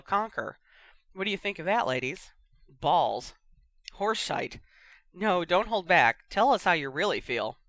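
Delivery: bantering match commentator voice; sports commentator. Acted. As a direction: rib your co-host on air.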